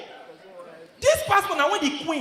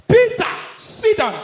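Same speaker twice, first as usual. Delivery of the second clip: stern wife; 6 semitones higher, 6 dB louder, slower than usual. Retold or imitated. Wife confronts husband at night.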